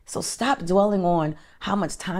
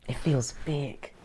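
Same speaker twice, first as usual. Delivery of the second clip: softly whispered repeat of it feels big; 5 dB quieter, slower than usual. Shown as a demonstration.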